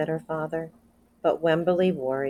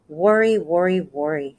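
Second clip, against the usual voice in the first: grandmother's fretting; 5 dB louder than usual. Acted. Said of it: "said her grandmother".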